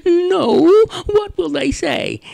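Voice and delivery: high squeaky curious mouse; field mouse voice. Acted. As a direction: ask like a tiny mouse. Mice answer rat.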